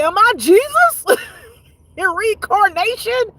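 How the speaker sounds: high, loud astonished question; amazed wonder. Retold or imitated. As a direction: ask it in giddy disbelief. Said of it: "I was like".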